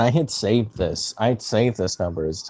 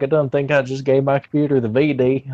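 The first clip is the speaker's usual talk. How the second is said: mock hick; 5 semitones higher than usual. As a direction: act the clueless country customer. Acts clueless hick to scammer.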